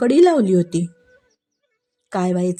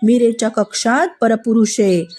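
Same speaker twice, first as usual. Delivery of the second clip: eager tattling. Acted. Maids eagerly telling Rana about a man in Meera's room. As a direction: spill the scandal eagerly.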